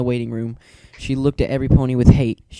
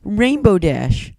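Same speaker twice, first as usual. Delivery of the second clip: high, slow, louder call of a name; shout; 8 semitones higher, 5 dB louder, much slower than usual. A narrator's reading. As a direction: call out to a sleeping friend. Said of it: "Twilight shouted".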